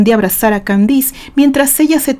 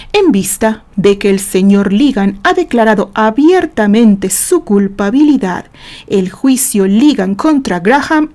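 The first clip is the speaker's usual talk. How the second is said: calm relief. Acted. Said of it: "Respirando hondamente y con un dejo de tranquilidad".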